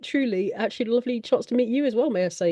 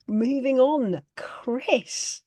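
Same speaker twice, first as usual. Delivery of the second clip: whispered; much slower than usual. Real, not acted. Host moves on, hushed aside.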